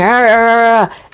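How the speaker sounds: half-hearted imitation of someone yelling; mock yelling. Daughter showing her mother someone yelling, mock yell. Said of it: "if you're yelling".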